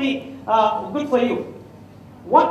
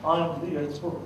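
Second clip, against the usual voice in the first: pompous expert; 4 semitones lower, 5 dB quieter than usual. Retold or imitated. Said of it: "Not like, you know, who I am".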